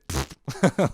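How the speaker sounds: pfft, laughter breaking out; imitated stifled laugh. Racers spot the drawing from the starting gate, imitated burst of laughter. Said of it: "they'd be like".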